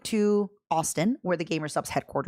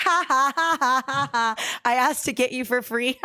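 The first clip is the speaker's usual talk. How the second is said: slow drawn out; 5 semitones higher, much slower than usual. Shown as a demonstration. Repeating to the plushie, slow and drawn out. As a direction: stretch every word out slowly. Repeats claim, then drags it out.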